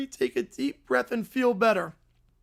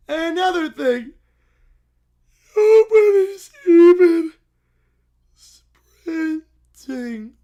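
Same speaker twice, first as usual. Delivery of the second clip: loud, higher, slow outburst; child yelling about golf; indignant outburst; 3 semitones higher, 9 dB louder, slower than usual. Acted. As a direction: blast it out in childish protest.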